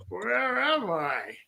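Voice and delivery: breathless unvoiced whisper, slow. Drunk friend playing Bond, asking where he is, in a whisper.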